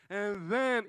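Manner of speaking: drawn-out awkward lead-in. Shown as a demonstration. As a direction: read it like you're left hanging alone. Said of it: "you know, all awkward".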